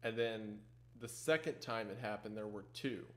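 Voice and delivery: quietly spooked, insisting it was real; hushed and shaken. Real, not acted. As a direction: talk low like someone might be listening at the door. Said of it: "I am wigged out".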